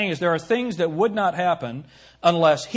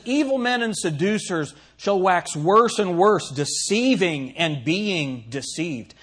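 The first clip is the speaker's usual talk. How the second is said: scripture reading; 3 dB louder, slower than usual. Acted. Pastor quotes scripture solemnly.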